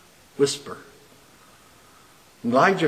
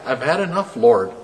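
frustrated; 6 dB louder than usual. Acted. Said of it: "See, very frustrated".

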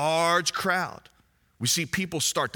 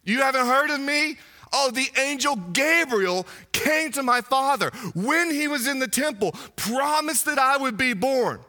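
proud, raised voice of self-importance; boastful prophet; 4 semitones higher than usual. Retold or imitated. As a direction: brag about your famous birth. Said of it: "John could have gone".

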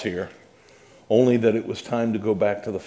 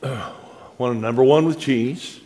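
slow careful repeat. Retold or imitated. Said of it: "clears throat, repeats order".

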